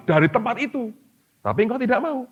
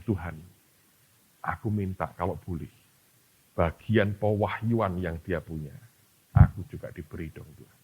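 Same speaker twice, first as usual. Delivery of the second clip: Gary Oliver praying; 9 semitones lower, 4 dB quieter than usual. Retold or imitated. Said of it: "Gary Oliver ngomongnya gini".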